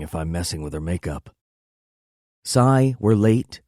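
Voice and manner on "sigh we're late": higher, louder whiny complaint; mock exasperated girlfriend; complaining. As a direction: complain with a sigh. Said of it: "she complains".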